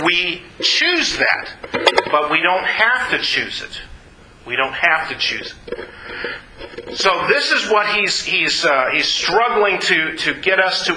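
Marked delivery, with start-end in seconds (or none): 4.5-7.0 softer, lower and slower; hushed repeat. Real, not acted. Preacher reassuring listeners they don't have to choose it, hushed. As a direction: ease off, letting it sink in slowly.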